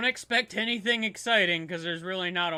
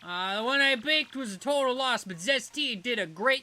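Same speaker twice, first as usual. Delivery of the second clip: higher, louder flustered rush; flustered fan; 6 semitones higher, 5 dB louder than usual. Acted. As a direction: scramble to remember the cake. Flustered fan offering cake.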